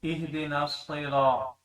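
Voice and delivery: اہدنا الصراط said slowly, with a heavy ص in الصراط; slow Quranic recitation demo. Shown as a demonstration. Tajweed teacher shows the heavy ص in slow recitation. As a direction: recite اہدنا الصراط carefully, giving ص its full weight. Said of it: "اب یہ صاد ہے".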